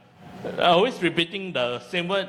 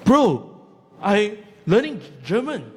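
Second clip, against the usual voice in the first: defiant comeback; 3 semitones higher, 4 dB louder than usual. Retold or imitated. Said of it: "And I was like".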